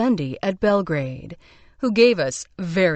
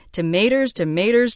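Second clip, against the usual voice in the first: put-on Southern belle accent. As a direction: moan "Tomaters" like an Atlanta belle, lifting each one. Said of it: "In her accent, thick as sweet tea".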